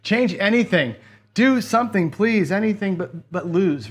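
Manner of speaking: mock-plead with rising urgency; pleading viewer. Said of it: "Mike says".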